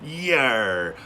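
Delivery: loud pirate-style yar; sailor voice. Pretend. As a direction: bark it like an old sea dog. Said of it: "I need to use my sailor voice".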